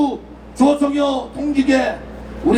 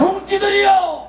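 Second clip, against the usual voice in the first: roaring rallying speech; 3 semitones higher than usual. Real, not acted. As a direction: lead the crowd chant at full voice. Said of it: "제가 선창할 테니까 따라해 주시기 바랍니다". (천천히 크게 외치는 선창 구호)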